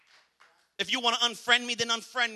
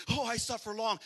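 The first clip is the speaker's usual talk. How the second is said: mock sigh; 5 dB quieter than usual. Mocking a codependent person.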